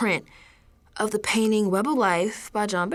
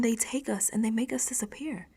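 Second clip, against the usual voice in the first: softer unvoiced whisper; fearful whisper; 6 dB quieter than usual. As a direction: confide the horror under your breath. Dread of being erased.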